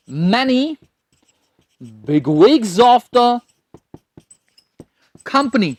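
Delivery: very slow, word by word for writing; slow dictation. Shown as a demonstration. Teacher dictating an example sentence, very slowly. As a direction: dictate it slowly so they can write. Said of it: "एक sentence बना लेते हैं".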